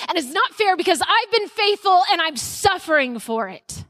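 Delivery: mildly acted complaint to God; honest diatribe. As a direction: plead the unfairness as Elijah. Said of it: "His diatribe is honest".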